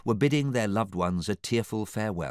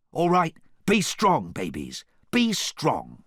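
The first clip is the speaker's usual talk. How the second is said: cajoling; 10 semitones higher, 5 dB louder, slower than usual. A narrator's reading. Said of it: "he cajoled".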